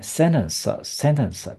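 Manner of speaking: "sentence" with the second E weakened to "uh"; reduced E. Shown as a demonstration. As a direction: say "sentence" with a schwa in the unstressed syllable. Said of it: "就是变成呃的音在念了". (sentence 第二个 e 念成呃)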